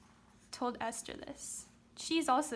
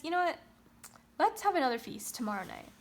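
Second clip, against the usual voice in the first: eager proposal; 4 semitones higher, 4 dB louder, faster than usual. Retold or imitated. Esther voiced proposing another feast.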